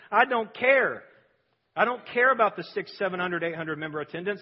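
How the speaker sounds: forceful preacher's insistence; emphatic declaration. Real, not acted. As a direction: hammer it home from the pulpit.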